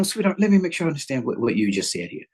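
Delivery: calmly checking what was meant; gentle clarifying. Shown as a demonstration. Husband gently asks his wife what she meant, calm and patient. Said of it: "for instance".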